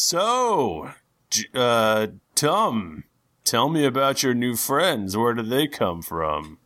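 lord's voice. Acted. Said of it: "Trant goes".

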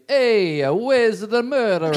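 hammed-up cartoon character voice; Mario Kart character. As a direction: stretch it out like a video-game cartoon character. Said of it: "that's the character on Mario Kart that you play".

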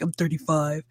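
low, quiet deadpan comeback, lightly voiced; imitating movie character. Man answers singer who called him a little boy, imitated low reply. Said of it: "He's like".

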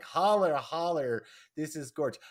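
loud, high squeal of delight on the first holler; gushing delight. Retold or imitated. Cohost gushing over an alien's outfit, excited squeal. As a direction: gush over the gorgeous dress. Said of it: "was like".

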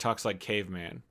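low, soft caveman grunt. Retold or imitated. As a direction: drop the grammar like a caveman. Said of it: "He just talks like a caveman".

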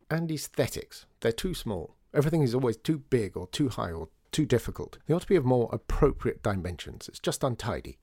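lightly voiced sharp-tongued columnist; sharp journalist. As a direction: Maddie scoffing at children, lightly voiced. Journalist Maddie's voice.

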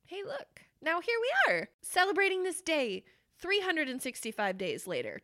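high, jubilant announcement; excited celebration. Real, not acted. Host marking one year of taking a stand, excited. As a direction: lift it high into a loud cheer. Cheering the anniversary moment.

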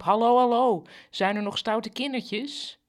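put-on lightly done Surinamese-Dutch accent, calling out loud; a Black Pete with a Surinamese accent, loud at first. Zwarte Piet bursts in, calling with a Surinamese accent. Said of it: "met een Surinaams accent riep".

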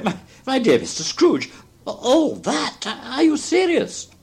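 high, stammering disbelief; breathless astonishment. A narrator's reading. Gentleman to Scrooge on hearing the sum, astonished and breathless. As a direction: stammer upward in amazement, stretching the words. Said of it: "as if his breath were taken away".

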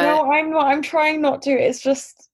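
holding back a laugh; stifled giggles. Real, not acted. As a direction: voice bubbling with suppressed laughter. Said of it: "I know you're cracking up at that".

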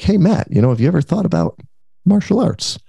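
lightly hammed father-in-law nudging his son-in-law; imitating father-in-law. Father-in-law suggesting martial arts.

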